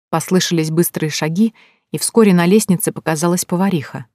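usual speaking voice

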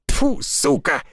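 spitting out a bug, high and sharp; just swallowed a bug. Acted. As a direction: spit and curse as a midge flies in. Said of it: "Лесник закашлялся и сплюнул мошку".

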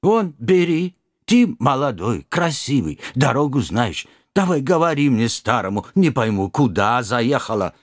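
put-on startled old driver, broken Russian; old Kazakh driver. Driver voiced.

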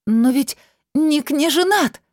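high, loud desperate cry; shout. A narrator's reading. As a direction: yell it back at the spirit. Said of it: "закричала она в ответ".

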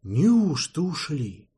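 slow, drawn-out amazed question; genuine delight. Acted. Valet amazed at the escape, slow delighted question. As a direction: marvel that they got away. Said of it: "неподдельно восхитился тот".

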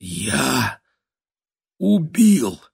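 halting, then rising high on the verb; stunned outcry, a long pause in the middle; horrified realisation. A narrator's reading. Stunned realisation of having killed.

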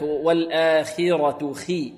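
slow والآخرة خي with a clean i; lightly heavy kha. Shown as a demonstration. Teacher models it likewise, خي only lightly heavy. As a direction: draw out خي with a clear i. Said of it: "كذلك".

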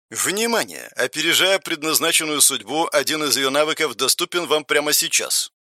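soft, even system voice; system announcement. Acted. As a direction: read like a game notification. System message read out.

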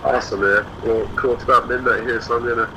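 over a phone line; tinny phone interview sound; phone call audio. Real, not acted. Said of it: "We had to do a phone interview".

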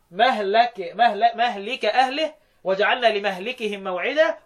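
مهلك recited as mahlika; Hafs reading, kasra. Shown as a demonstration. Teacher summarising Hafs's reading, kasra in مهلك. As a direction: say لمهلكهم as li-mahlikihim, i after the l. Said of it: "وحفص قراءة".

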